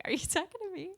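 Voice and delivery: high, laughing mock surprise; retelling her own startled laughing question; laughing disbelief. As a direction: ask it through a giggle, caught off guard.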